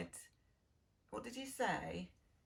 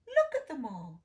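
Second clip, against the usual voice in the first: louder, admiring cry of a duck; loud exclaiming duck; 2 semitones higher, 9 dB louder than usual. Acted. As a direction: call out in delight to the crowd. Other ducks exclaiming.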